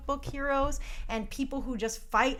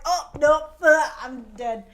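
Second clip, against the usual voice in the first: mock Goku panic; 3 semitones higher, 10 dB louder than usual. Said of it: "'Cause he was like".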